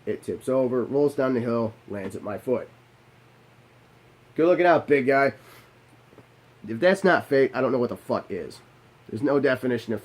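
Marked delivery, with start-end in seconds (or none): 4.3-5.3 grateful shout-out. Retold or imitated. Thanking God for the bottle.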